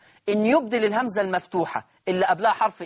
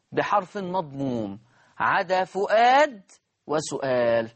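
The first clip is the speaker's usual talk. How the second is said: measured dictation with pauses between phrases; classroom dictation; slower than usual. Acted. Teacher dictating a rule to students, dictation voice. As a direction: dictate it phrase by phrase, stretching the key words.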